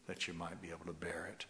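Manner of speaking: fast, breathy whispered close of the verse. Acted. Preacher finishing the scripture promise, whispered. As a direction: drop to a whisper.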